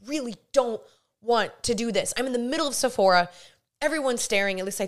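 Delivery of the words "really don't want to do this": breathy reluctant groan of a thought; reluctant inner voice. Retold or imitated. Torn over praying in Sephora, retold reluctant inner voice. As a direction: drag out the reluctance, half whispered. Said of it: "going back and forth in my head".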